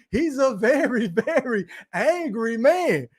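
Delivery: slow repeat broken by a laugh; laughing quote. Retold or imitated. Streamer repeating the Martin line to chat, laughing. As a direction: say it slowly, cracking up midway. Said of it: "Y'all remember that shit on Martin?".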